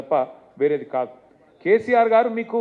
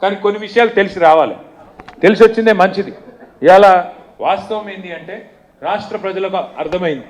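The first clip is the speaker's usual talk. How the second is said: rally shout; 9 dB louder than usual. Real, not acted. Rally speech, crowd addressed.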